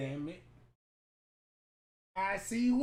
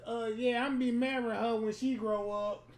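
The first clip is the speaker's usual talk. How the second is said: Donald Trump voice. Pretend. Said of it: "In my Donald Trump voice".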